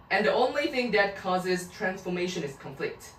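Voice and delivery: very slow, careful reading. Shown as a demonstration. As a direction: read out word by word for students. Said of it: "teacher reads text aloud slowly".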